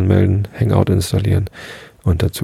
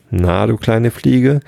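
mocking fox; 2 semitones higher, slower than usual. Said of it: "verspottete ihn".

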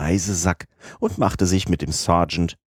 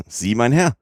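high, rising exclamation of disbelief; mild cry, pitch shooting up at the end; 7 semitones higher, 3 dB louder than usual. A narrator's reading. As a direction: exclaim it as a startled question. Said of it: "schrie Fix".

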